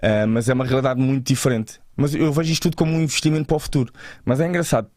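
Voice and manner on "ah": ordinary talk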